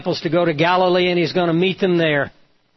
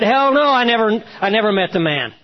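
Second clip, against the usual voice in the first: cursing denial; 5 semitones higher than usual. Retold or imitated. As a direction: bark the denial like a cornered man swearing. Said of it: "with cursing pouring out of his lips".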